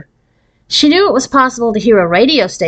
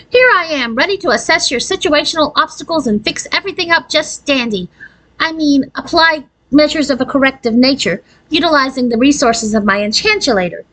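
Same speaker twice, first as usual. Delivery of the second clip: happy; 7 semitones higher than usual. A narrator's reading. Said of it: "Aurora gave a happy sigh".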